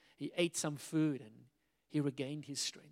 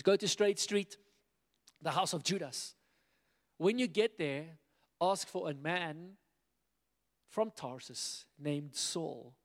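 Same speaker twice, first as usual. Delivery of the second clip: commanding God voice. Acted. God's command read aloud.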